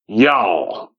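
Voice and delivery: "Y'all" in a light Southern drawl, falling; mimicking a Southern "Y'all" flatly. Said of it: "Jeju will tell me".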